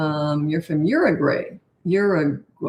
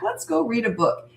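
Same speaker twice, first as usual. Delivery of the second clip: higher-pitched cheery suggestion; 4 semitones higher than usual. Shown as a demonstration. Parent redirecting child after a tantrum, cheery. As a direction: cheerily move them along to something else. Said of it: "See my cheery tone?".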